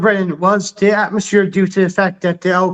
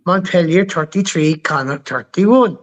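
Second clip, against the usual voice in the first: sarcastic. Real, not acted. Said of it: "you don't need to be so fucking sarcastic".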